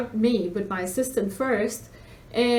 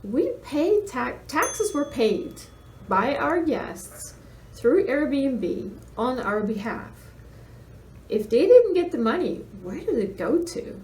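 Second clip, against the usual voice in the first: exasperated explaining; 3 semitones higher than usual. Retold or imitated. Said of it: "I'm like".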